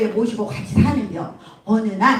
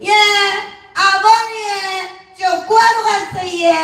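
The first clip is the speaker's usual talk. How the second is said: high, slow, drawn-out Gyeongsang lilt; Gyeongsang daughter-in-law; 7 semitones higher, slower than usual. Acted. Woken daughter-in-law answers mother-in-law, slow Gyeongsang accent. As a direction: stretch each phrase in Gyeongsang accent. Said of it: "며느리가 잠자다가".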